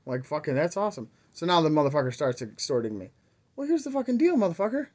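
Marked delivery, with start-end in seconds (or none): 3.6-4.9 high-pitched furious address; angry rant. Real, not acted. Vlogger turning on the scammer who extorted him, high furious call-out. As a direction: call the scammer out to his face.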